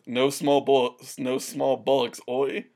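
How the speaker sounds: lightly imitated British accent; a hint of British in the quote; mild mock-British accent. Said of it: the speaker is doing a British accent.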